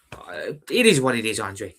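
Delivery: breathy, resigned, barely voiced; resigned whisper. Real, not acted. Fan telling viewer Andre he's resigned, whispered. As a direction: let it out on a tired breath.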